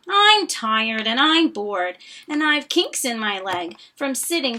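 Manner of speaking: weary sigh. Acted. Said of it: "Sighed Maisie".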